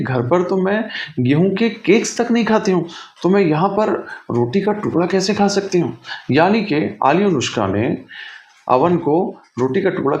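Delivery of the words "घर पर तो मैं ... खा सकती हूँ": high-pitched, mildly affronted protest; indignant refusal. A narrator's reading. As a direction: turn it down as beneath you, pitched up. Girl refuses the oven's bread. (नखरे से इनकार, ऊँची आवाज़ में)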